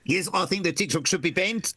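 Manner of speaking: put-on South African accent. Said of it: "I can do a truly appalling South African accent".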